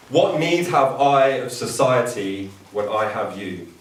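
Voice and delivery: measured, unhurried reading of a poem; poem recitation. Acted. Brother reciting a Persian ghazal to exhibition guests, measured recitation.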